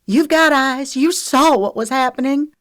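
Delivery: high, loud pleading insistence; desperate. A narrator's reading. Lexi turns to Cresta and Renee, desperate. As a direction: plead urgently to be believed. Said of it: "Desperation clawed through her".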